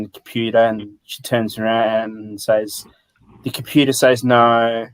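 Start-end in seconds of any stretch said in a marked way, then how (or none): 3.4-4.9 deadpan bored clerk; flat, bored office voice; dry monotone. Retold or imitated. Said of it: "like, in a dry monotone voice".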